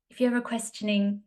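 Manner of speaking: lightly attempted English accent. Podcaster quoting a lady from a viral reel, English accent. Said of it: "says it in an English accent".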